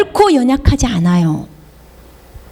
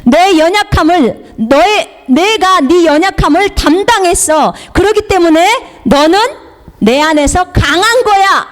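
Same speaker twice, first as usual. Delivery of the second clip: lightly voiced Lord, pitched up, emphatic; the Lord speaking; 4 semitones higher than usual. The Lord telling a believer to be strong, emphatic. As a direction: proclaim it as God, higher and forceful. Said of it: "주님은 우리에게 요구하시는 것이 뭐냐면".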